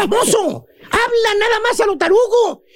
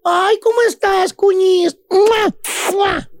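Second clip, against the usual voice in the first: fake-sweet greeting; slower than usual. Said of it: "el típico saludo de la cuñada chismosa es".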